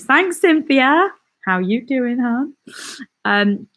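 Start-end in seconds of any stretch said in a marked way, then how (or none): 0.0-2.5 put-on playful, higher-pitched Jersey accent. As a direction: answer a fan in a drawn-out Jersey accent. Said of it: "Your Jersey accent is really good".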